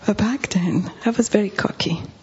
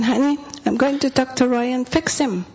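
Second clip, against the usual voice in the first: higher-pitched, self-assured boast; cocky promise; 5 semitones higher than usual. Retold or imitated. Speaker telling husband she'll fix Roy, cocky. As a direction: retell it as an overconfident would-be hero.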